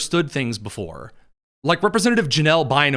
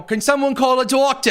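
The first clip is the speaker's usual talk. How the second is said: mock plea; 8 semitones higher than usual. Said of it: "You can't just walk up and go".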